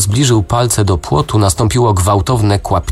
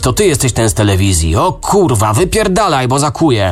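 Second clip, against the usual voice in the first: much higher panicked yelling; frenzied shouting; 7 semitones higher than usual. A narrator's reading. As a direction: scream it like a man in a frenzy. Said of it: "krzyczał jak w amoku". (krzyk jak w amoku)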